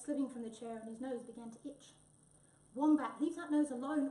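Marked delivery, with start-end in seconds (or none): 2.7-4.1 loud, firm storybook command; ordering. A narrator's reading. Tabby telling Wombat off at the photographer's, ordering loudly. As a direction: order it sharply, louder than usual. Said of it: "ordered Tabby".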